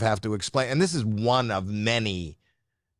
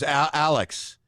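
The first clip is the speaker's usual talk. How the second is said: raised pitch, calling for someone; 6 semitones higher, slower than usual. Real, not acted. Dad calling his son over mid-podcast, calling out. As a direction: call the name to get his attention.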